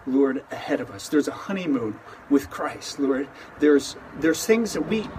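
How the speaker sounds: calm, earnest prayer voice; opening prayer. Acted. Pastor leads an opening prayer.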